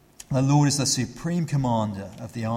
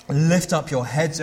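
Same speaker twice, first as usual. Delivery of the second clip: slow, louder rallying call; 3 semitones higher, 5 dB louder than usual. Retold or imitated. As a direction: call out to the worried gate. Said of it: "the cry comes out".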